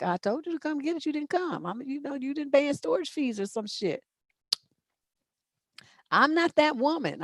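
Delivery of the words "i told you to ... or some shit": softer, offhand brush-off; telling the daughter off in a quiet, unbothered voice; calm dismissal. Retold or imitated. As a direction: shrug it off quietly, like it's obvious. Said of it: "but I'm like".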